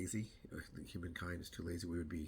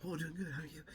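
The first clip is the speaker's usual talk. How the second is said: bright greeting; 10 semitones higher than usual. Retold or imitated. Friendly trail greeting.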